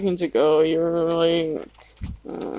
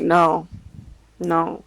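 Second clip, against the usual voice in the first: calm refusal. Retold or imitated. Child answering the angry father's accusation, calm. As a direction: repeat it evenly, without rising to it. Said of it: "Kinda calmly".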